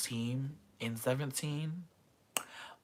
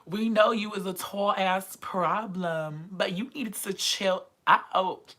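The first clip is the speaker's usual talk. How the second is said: mock scolding; 5 semitones higher than usual.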